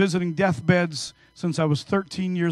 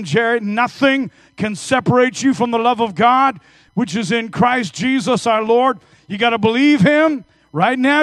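loud urgent preaching, pitch raised; fervent exhortation; 3 semitones higher, 4 dB louder than usual. Retold or imitated. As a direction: urge him to believe, full force. Preaching to dying man.

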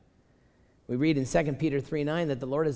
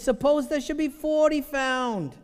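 put-on high, slow, drawn-out Jewish accent; 10 semitones higher, 4 dB louder, slower than usual. Preacher voices Abraham haggling with God, hammed-up Jewish accent. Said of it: "I need to get my Jewishness on right now".

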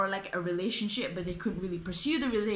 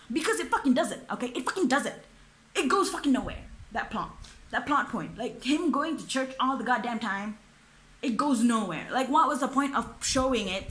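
getting heated; 2 semitones higher than usual. Real, not acted. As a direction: vent at a pointless plot point. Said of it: "I'm getting heated".

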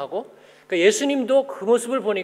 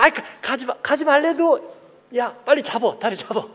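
frantic disciples holding him back; 6 semitones higher than usual. Retold or imitated. Disciples grabbing the father.

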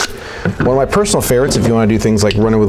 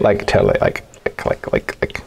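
put-on valley girl; 2 semitones lower, 5 dB quieter than usual. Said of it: "Sound like a valley girl".

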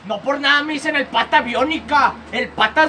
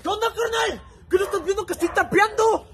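cholo voice; 4 semitones higher than usual. Acted. Cholo character greets brother.

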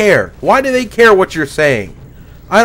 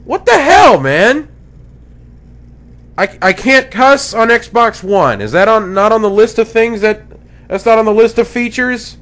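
mock outrage; 5 semitones higher than usual. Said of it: "audio clip here of how it would be".

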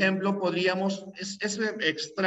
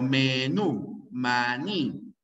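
menú and maní, each stressed on its final syllable; stress on last syllable; 3 semitones lower, much slower than usual. Shown as a demonstration. Teacher giving examples of agudas, final syllable stressed in menú and maní. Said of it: "llevan la fuerza de voz en la última".

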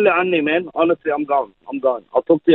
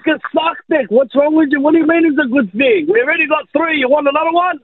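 higher, exasperated disbelief; exasperated outburst; 6 semitones higher than usual. Real, not acted. Husband to wife over a fourth baby, exasperated higher outburst. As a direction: let it burst out, can't believe it. Angry reaction to pregnancy news.

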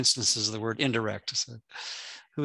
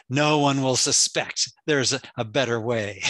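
sinister Machiavellian voice; 4 dB louder, slower than usual. Retold or imitated. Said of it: "this sinister Machiavellian, uh, voice says".

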